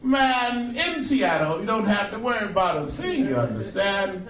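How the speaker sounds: lightly voiced Cosby retelling the joke; Bill Cosby impression. Comedian doing Bill Cosby's take on the rain joke, lightly voiced. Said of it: "Bill Cosby would tell the rain joke like this".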